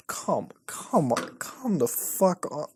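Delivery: slow, unvoiced whisper of come on; hushed urging. Real, not acted. Reading a cringe hitman story, whispering impatiently. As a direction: whisper it slowly, willing the story on.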